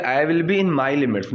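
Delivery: very slow, careful teacher reading; slow model sentence. Shown as a demonstration. Teacher to students, slow clear model sentence. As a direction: lay out each word for learners. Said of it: "teacher models phrase".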